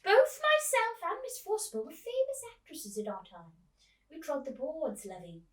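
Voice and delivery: put-on high, loud theatrical old lady; old actress voice. Old actress greets the girl, high and loud. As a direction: gush like a grand old actress. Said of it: "Miss Spink said".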